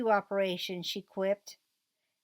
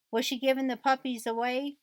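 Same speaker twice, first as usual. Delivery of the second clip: a lightly voiced heartbroken boy, pitch a little higher; heartbroken cry; 4 semitones higher than usual. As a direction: ask it like a child who fears losing the puppies, only mildly played. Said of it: "cried Rhett, sounding heartbroken".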